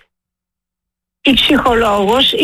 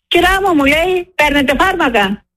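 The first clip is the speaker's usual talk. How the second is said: higher-pitched mimicry of a curt operator; imitated dismissive operator; 5 semitones higher than usual. Survivor retelling how a helpline operator addressed her, mildly mocking dismissiveness. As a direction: mimic the operator's offhand, disrespectful question. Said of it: "Γιατί μου μιλάτε με αυτό το ύφος".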